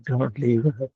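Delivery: the same plea "don't leave us" half laughed, rising on "leave"; laughing plea. Retold or imitated. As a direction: break into a chuckle while begging, lifting "leave". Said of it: "started crying".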